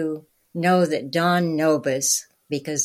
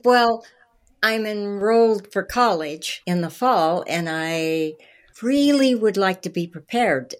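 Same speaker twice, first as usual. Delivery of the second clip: higher and louder, earnestly pressing her case; eager young plea; 4 semitones higher, 4 dB louder than usual. Retold or imitated. Young applicant eagerly pleading with Don for the script, higher and louder. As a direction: sell yourself with eager brightness.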